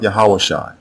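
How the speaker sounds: "Yahawashai" with every letter sounded, ya-ha-wa-shy; wrong name pronunciation. Shown as a demonstration. Teacher showing how not to pronounce Hoshai's name, wrong form. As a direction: spell out "Yahawashai" by sound, H and W heard. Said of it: "the way you pronounce Hoshai's name is not".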